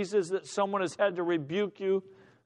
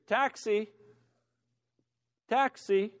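measured taxi call, a little raised; civilized hailing; 3 semitones higher than usual. Acted. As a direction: hail a cab with dignity. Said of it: "Here's a civilized man with dignity".

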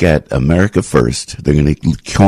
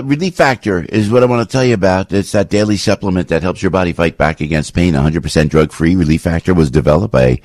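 easy sales pitch, host style; live ad read; 3 semitones lower than usual. Acted. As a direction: sell it like a friend.

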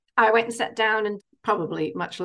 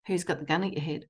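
soft, low-key question, much softer; quiet inner voice; 3 semitones lower, 7 dB quieter, faster than usual. Retold or imitated. The calm inner voice asking her, softly and much quieter. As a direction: ask it gently, like a calm inner voice. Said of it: "that voice came back very quietly again".

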